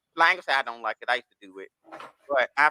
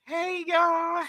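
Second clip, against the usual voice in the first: high-pitched, softer "hey, y'all"; mock cheery greeting; 12 semitones higher, 5 dB quieter than usual. Mimicking someone angling for attention, mock cheery greeting. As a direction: put on a high sing-out greeting.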